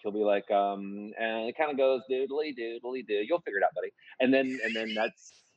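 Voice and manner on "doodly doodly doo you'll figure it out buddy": singsong nonsense, breezy voicemail impression; Peter Gwinn. Writing partner leaving a lyrics voicemail, light impression. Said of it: "I do a mean impression of him".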